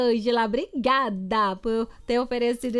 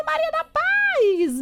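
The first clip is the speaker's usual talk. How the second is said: gushing; 4 dB louder, slower than usual. Real, not acted. Admires a listener's hair.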